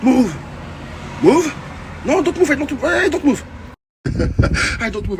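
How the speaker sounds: high, shouted back-and-forth; imitated police standoff; mock shouting exchange. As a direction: yell and answer in panic. Cop and him shouting.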